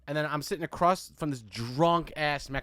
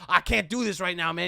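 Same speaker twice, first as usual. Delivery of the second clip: imitated kid protesting, slightly raised pitch; crazy kid's voice; 4 semitones higher, 5 dB louder than usual. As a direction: put on an agitated oddball gamer. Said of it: "I swear this is his voice".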